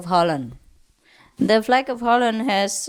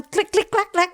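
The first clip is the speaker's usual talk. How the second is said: clicking noises; 10 semitones higher than usual. Retold or imitated. Imitating remote control clicks.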